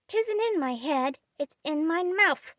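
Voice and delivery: put-on high, pleased small boy; lightly voiced little boy. Child with chocolate on tongue.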